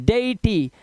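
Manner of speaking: "deity" as DAY-i-tee, e and i apart; teacher's model of "deity" in three syllables; vowels sounded separately. Shown as a demonstration. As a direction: give each vowel of "deity" its own sound. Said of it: "स्वतंत्र रूप से हो रहा है".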